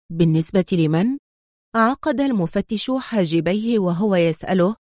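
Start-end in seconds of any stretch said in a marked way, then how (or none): 0.1-1.2 calm, composed question. A narrator's reading. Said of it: "سأله أدهم في هدوء". (سؤال هادئ)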